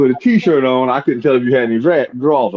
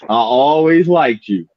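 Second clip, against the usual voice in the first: mock sweet talk; slower than usual. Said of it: "the first line they always say".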